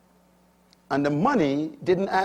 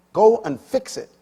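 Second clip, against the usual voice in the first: retold shout; 7 semitones higher, 6 dB louder than usual. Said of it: "And he shouted at me".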